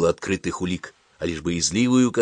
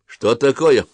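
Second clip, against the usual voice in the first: alarmed; 6 semitones higher, 7 dB louder, slower than usual. A narrator's reading. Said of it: "тревожно спросил жандарм".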